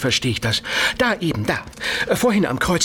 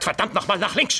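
angry yell; shouting; 5 semitones higher, 3 dB quieter than usual. Acted. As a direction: shout it in frustration. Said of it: "Warum um Gottes Willen schreien Sie denn so?".

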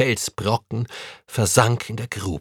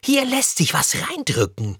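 put-on a boy's call, pitched much higher; 11 semitones higher than usual. A narrator's reading. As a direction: call out excitedly to a friend. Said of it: "denn Tim rief".

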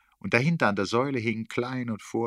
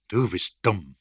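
loud, cross retort; 8 dB louder, slower than usual. A narrator's reading. Erik stops whispering and answers back crossly. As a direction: hit back angrily in full voice. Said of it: "gab er böse zurück und flüsterte nicht mehr".

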